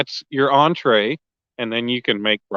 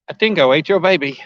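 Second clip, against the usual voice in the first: imitating Elaine; 3 semitones higher than usual. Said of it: "that episode of Seinfeld".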